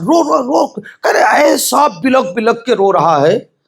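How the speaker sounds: slow crying voice; weeping. Acted. Preacher telling of the weeping father, crying slowly. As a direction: let the sobs break through the words.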